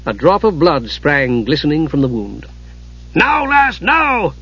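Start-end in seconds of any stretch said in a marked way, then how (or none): 3.1-4.3 breathless high urging; panting dwarf urging. Acted. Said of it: "Dugan panted".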